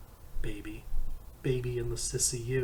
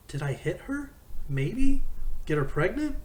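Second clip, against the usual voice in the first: shouting; 7 semitones higher, 8 dB louder than usual. Acted. Jersey shouting back at Todd.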